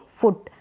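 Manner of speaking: फुट said with a brief u; short double-o. Shown as a demonstration. Teacher answers her own question, short vowel. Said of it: "क्या पढ़ेंगे".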